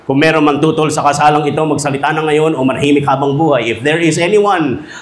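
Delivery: formal wedding-officiant recital; officiating minister. Acted. Minister asks guests for objections, formal recital. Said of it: "tinatanong ng minister".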